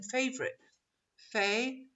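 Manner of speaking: 'Favorite' broken into three beats, fa-vo-rite; syllable by syllable. Shown as a demonstration. Teacher counting syllables as you write it down, fa-vo-rite. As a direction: spell out every written syllable of 'Favorite', with gaps. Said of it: "how many syllables are there".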